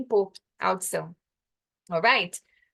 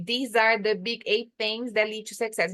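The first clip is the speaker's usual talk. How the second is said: slow reading. Shown as a demonstration.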